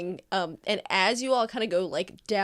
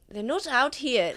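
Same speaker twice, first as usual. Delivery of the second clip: hammy stage actor; 4 semitones higher than usual. Acted. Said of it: "he's really chewing the scenery".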